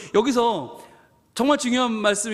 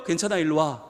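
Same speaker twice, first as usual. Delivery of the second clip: God's gentle answer; 5 semitones lower than usual. Retold or imitated. God answering the sinner.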